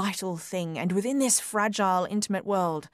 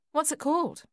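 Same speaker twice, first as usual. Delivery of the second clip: put-on young wife voice; 9 semitones higher than usual. A narrator's reading. Wife curious, voiced higher.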